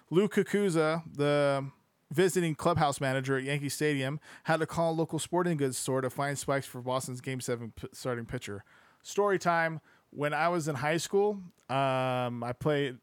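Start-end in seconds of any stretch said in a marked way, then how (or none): 0.1-8.6 steady audiobook-style reading; narrating a sports history book aloud; book narration. Acted. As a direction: read the passage out evenly to listeners.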